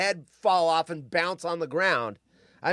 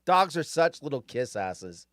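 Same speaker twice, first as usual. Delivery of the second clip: ordinary delivery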